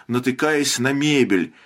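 usual speaking voice

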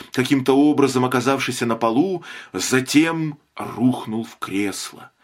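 usual speaking voice

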